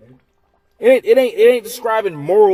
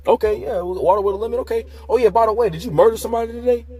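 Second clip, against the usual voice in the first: mock waiter; 4 semitones higher, faster than usual. Waiter asks in acted scene.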